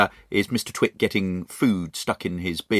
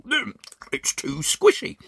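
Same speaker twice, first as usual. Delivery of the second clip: put-on higher, slow grumbling old man chewing; Mister Twit, mouth full; 12 semitones higher than usual. Mister Twit complaining about lunch while chewing. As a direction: grumble through a mouthful of spaghetti. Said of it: "talking with his mouth full".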